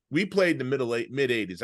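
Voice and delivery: Long Island accent, "middle eight" blurring into "Middle Ages". Real, not acted. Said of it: "That's my Long Island accent".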